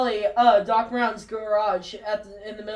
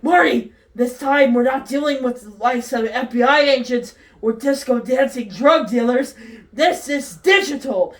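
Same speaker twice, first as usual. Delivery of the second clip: serious and animated; 4 dB louder than usual. Acted. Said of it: "seriously, animated".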